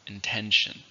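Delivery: "intention" with the stress on TEN; stress on second syllable. Shown as a demonstration. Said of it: "stress on the second".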